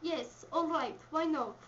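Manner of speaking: put-on Russian accent. Partner replying from a script, Russian accent. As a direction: have another go at a Russian accent. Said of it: "So again, Daisy?".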